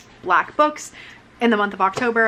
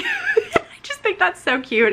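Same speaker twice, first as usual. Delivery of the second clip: giggling through the words; laughing; 13 semitones higher, slower than usual. Real, not acted. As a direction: laugh while you say it. Laughing at cute Yeti book.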